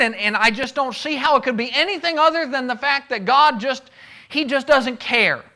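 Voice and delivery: pleading Job. Retold or imitated.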